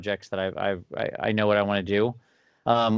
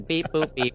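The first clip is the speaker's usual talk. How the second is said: robot beeps; 6 semitones higher than usual. Retold or imitated. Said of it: "mechanically make this thing".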